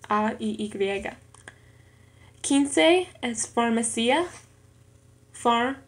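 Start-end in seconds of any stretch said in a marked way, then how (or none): 5.3-5.8 syllable by syllable. Shown as a demonstration. Learner working out syllables in an exercise, "farmacia" syllable by syllable. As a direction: say "farmacia" piece by piece, far, ma, ci. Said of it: "en tres sílabas".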